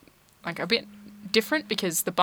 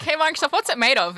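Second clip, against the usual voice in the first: mock eager question; 9 semitones higher, 5 dB louder than usual. Retold question to Microsoft.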